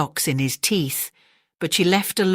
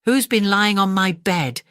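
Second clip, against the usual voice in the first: mother bear growl; 4 semitones higher than usual. Acted. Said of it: "Mother Bear growled".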